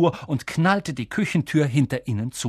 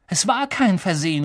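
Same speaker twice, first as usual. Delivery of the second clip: higher-pitched indignant protest; angry; 5 semitones higher than usual. Acted. Boy contradicting his uncle, angry protest. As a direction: contradict him with some heat. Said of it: "rief Harry zornig".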